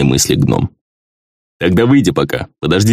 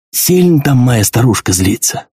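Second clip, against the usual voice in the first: resigned question; 5 semitones higher than usual. Acted. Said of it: "обречённо спросил он у меня".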